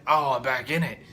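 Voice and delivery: a hint of mocking Xavier. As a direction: toss it off sarcastically. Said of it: "he's like".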